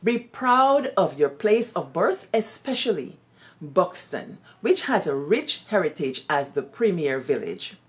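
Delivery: measured public reading of a letter; reading a letter aloud. Acted. Teacher reading a late headmistress's letter to Buxton villagers, measured reading. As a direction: read it out so listeners ponder each line. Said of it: "I'm gonna try to read this in a, in a way that you can ponder on her words".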